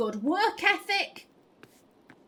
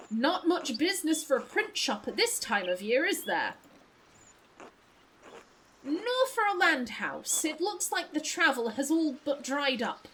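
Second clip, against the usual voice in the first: put-on a touch of posh accent; lightly played posh small talk. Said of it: "I'll give you posh voice".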